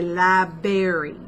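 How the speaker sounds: "library" said slowly as "lie-berry"; "library" without its first r, lie-berry; playful mispronunciation. Shown as a demonstration. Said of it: "doesn't like it when I say".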